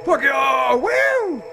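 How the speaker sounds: high, loud whoop of escape; triumphant yell. Real, not acted. Player escapes a pursuer in the game, exultant. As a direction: holler at the pursuer, then whoop.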